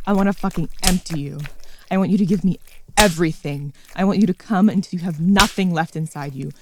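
normal talking voice

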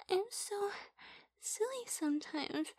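usual speaking voice

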